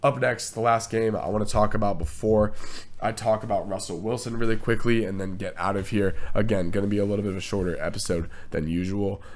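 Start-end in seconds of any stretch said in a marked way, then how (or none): 6.3-9.2 hoarse, fading voice; tired voice giving out. Real, not acted. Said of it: "I'm, like, losing my voice as I go".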